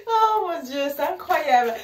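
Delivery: high, loud, tearful-with-laughter exclamation; real hilarity, pitched high; overcome with mirth. Real, not acted. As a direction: wail it through the tail of a laughing fit. Recovering from a laughing fit.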